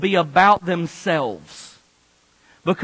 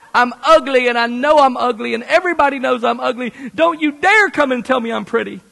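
stressy protest; 4 semitones higher, 4 dB louder than usual. Acted. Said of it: "Don't do stressy face".

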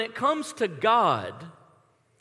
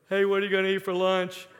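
fast monotone with the tone still in it; failed whisper, still voiced; 3 semitones lower, faster than usual. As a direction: mimic a friend trying to lower his voice. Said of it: "the tone's still in his voice".

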